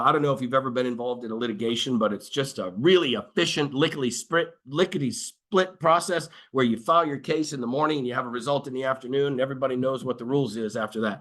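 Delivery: fast, mock-breezy sarcasm; sarcastic. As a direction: rattle it off with dry sarcasm. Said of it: "I'm being sarcastic".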